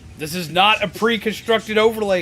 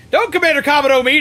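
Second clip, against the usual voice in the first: higher, louder and fast angry retort; angry outburst; 5 semitones higher, 4 dB louder, faster than usual. Real, not acted. Streamer raging at the game's commander, angry. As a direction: snap back in outrage.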